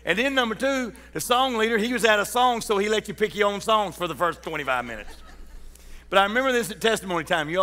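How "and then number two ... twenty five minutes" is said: laughing. Real, not acted.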